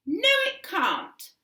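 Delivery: slow, high, stern refusal; firm insistence. A narrator's reading. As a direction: shut him down. Mother insists.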